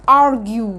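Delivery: "ارجيو" with a slow, held "yoo" ending. Shown as a demonstration. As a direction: draw out "yoo" at the end of "ارجيو". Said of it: "باليو كانها يو". (مد "يو" في "ارجيو")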